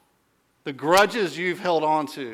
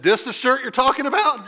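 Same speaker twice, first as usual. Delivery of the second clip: higher, louder mock rage, laughing through it; full Hulk; 9 semitones higher, 5 dB louder than usual. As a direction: play the raging father, half laughing. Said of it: "I remember he went full Hulk".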